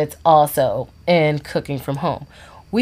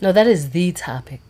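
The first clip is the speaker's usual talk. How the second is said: whisper; 2 semitones higher than usual. Real, not acted.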